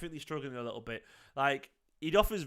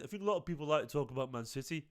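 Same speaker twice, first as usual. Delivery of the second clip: put-on weak Brummie accent, a bit quicker and softer; mock Brummie accent; 4 dB quieter, faster than usual. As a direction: imitate Jack's Brummie accent, half-hearted. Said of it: "uh, to do his accent".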